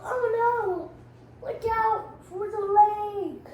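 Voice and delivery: high, loud, slow warning; alarmed cry. Acted. Captain warning of the lake, alarmed and loud. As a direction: yell a warning before the crash. Spaceship about to crash.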